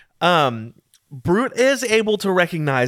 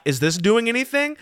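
overacted wondering aloud; hammy stage actor; 7 semitones higher than usual. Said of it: "Like, I'm hamming it up".

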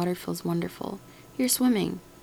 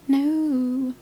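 emphatic no; 6 semitones higher, 6 dB louder than usual. Real, not acted. Emphatic refusal.

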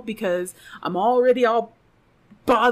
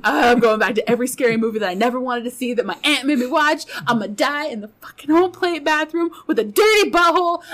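comic panicked rant, building higher; losing it; 3 semitones higher, 4 dB louder than usual. Retold or imitated. Woman trapped with a creepy child, losing it. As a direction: let the mock panic climb to a cry. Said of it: "I'm just, like, losing it".

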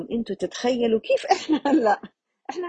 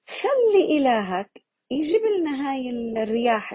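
mock taunt; 6 semitones higher than usual. People of 'Ad taunting their prophet, mocking dare. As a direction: sneer the dare like a scornful crowd.

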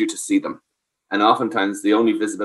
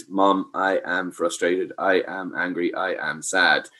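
slow, softer, lightly voiced child; calm child naming feelings; 3 semitones lower, 6 dB quieter, slower than usual. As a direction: say each feeling plainly and slowly. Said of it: "to be able to communicate".

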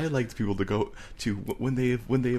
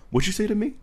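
high, indignant mock challenge; 4 dB louder than usual. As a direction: snap back as if offended, jokingly. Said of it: "my new favorite thing to say".

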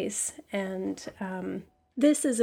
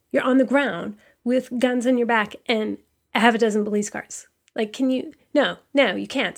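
louder, fast, heated challenge; indignant rant; 2 semitones higher, 7 dB louder than usual. Real, not acted. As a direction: push it at the listener in real outrage. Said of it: "I'm still enraged".

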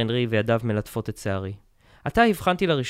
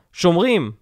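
loud, higher summons; calling out; 6 semitones higher, 7 dB louder than usual. A narrator's reading. Schultz calling loudly for the guards. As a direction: bark the order to the door. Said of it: "שולץ קרא".

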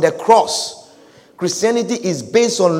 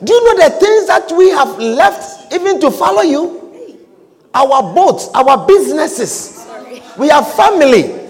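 Peter rebuking; 5 semitones higher than usual. Acted. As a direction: remind him what we gave up. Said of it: "he said".

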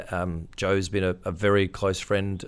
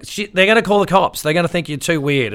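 worried partner; 9 semitones higher, 7 dB louder than usual. Retold or imitated. Partner warning on phone.

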